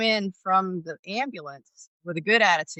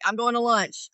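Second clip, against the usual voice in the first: fed-up exclamation; 6 semitones higher than usual. Retold or imitated. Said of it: "I'm like".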